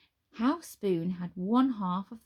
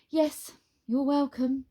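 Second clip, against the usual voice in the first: slow, higher sarcastic reply; dry Nine; 6 semitones higher, 5 dB louder, slower than usual. A narrator's reading. Nine to the wizard, slow and sarcastic. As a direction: hand over the thanks drily.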